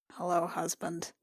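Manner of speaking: low, soft, weary hello; a hint of a haggard wife; grim greeting. Juliana greeting her husband Max, low and quiet.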